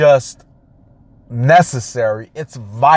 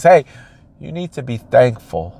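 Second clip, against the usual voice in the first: calm nice voice. Retold or imitated. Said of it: "such a nice voice, such a calm voice".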